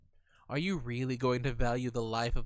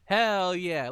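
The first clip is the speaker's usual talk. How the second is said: cheering; 3 semitones higher, 7 dB louder than usual. Real, not acted. Cheering the game choice.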